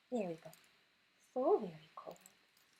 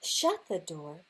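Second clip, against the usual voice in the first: louder, hurried and alarmed; frantic rush; 5 dB louder than usual. Acted. Reading the dash home to her son, loud and alarmed. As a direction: bustle through it in mock panic. Hiding from the bear.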